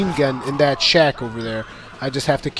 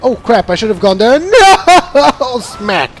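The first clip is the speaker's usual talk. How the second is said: laughing panic; 7 semitones higher, 7 dB louder than usual. Retold or imitated. Crashing in the chariot race.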